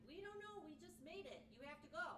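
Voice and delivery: imitating the staff shooing her along; urgent coworkers. Mimicking coworkers rushing her to the high school, high and urgent. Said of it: "they're like".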